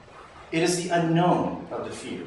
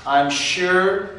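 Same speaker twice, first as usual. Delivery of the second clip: "sure" hit firm and a touch louder; confident stress on "sure"; 3 dB louder than usual. Shown as a demonstration. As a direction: land "sure" with conviction. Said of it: "Always have that".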